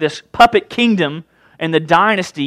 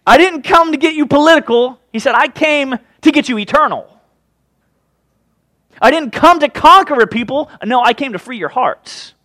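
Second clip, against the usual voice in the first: higher, earnest voice of Jesus, softening at the end; Jesus paraphrased; 5 semitones higher than usual. Retold or imitated. Jesus correcting the crowd, higher and earnest. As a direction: set them straight, gently. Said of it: "this is paraphrasing, was kinda like".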